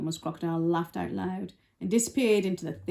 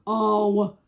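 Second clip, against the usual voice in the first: Trunky; 6 dB louder than usual. Shown as a demonstration. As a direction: push out a big elephant cry. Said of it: "Is that better?".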